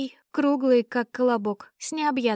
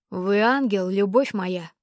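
pathetic exclamation; 2 semitones lower, 3 dB louder than usual. Acted. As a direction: declaim it with pathos. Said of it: "С пафосом воскликнул герцог".

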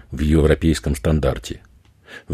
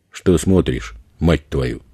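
usual speaking voice

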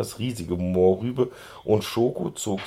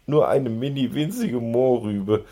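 higher-pitched luring plea; coaxing; 4 semitones higher than usual. A narrator's reading. Schoko luring his pony friend towards the carrots, coaxing. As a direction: tempt a friend into it. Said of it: "lockte Schoko".

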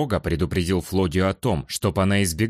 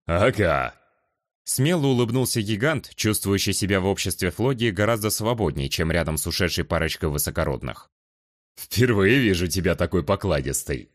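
confident giant's teasing voice; bold warrior. Acted. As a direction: tease her boldly.

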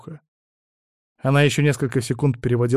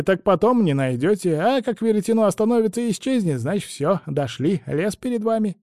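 put-on higher, fussy old crone voice; old woman; 8 semitones higher than usual. A narrator's reading. Old woman instructs travellers about the spindle, high crone voice. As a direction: chatter on like a meddling old woman.

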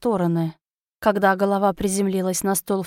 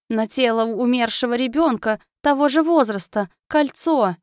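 frightened servant; 3 semitones higher than usual. Acted. Cavalam confesses.

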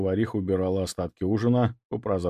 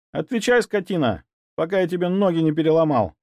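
much higher, louder outburst; explosive fury; 7 semitones higher, 3 dB louder than usual. Acted. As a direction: blow up at the servant. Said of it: "взорвался Ваня". (взорваться от ярости)

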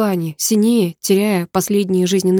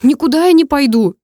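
much higher, louder furious refusal; angry retort; 7 semitones higher, 7 dB louder than usual. Acted. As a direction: snap back, refusing to leave. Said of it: "разозлился я". (злой выкрик)

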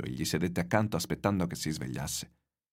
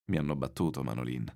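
put-on weary old man; 5 semitones lower than usual. Exhausted old man to the boy.

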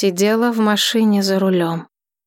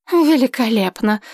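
grumbled sarcasm; 3 semitones higher than usual. Acted. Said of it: "пробурчала Дживей".

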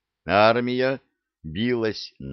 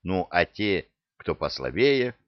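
ordinary delivery

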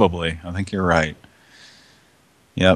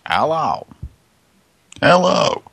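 high, raised hello; 10 semitones higher, slower than usual. Acted. Calling out on phone.

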